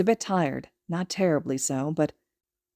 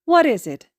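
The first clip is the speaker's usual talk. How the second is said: high, louder mock curiosity; feigned confusion; 7 semitones higher, 8 dB louder than usual. Mother pretending curiosity for her son, high and playful. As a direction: play along as if puzzled. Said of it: "feigning confusion".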